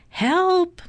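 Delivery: high-pitched cry for help; calling for help. A narrator's reading. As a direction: call out in storybook distress. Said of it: "Missus Watson called again".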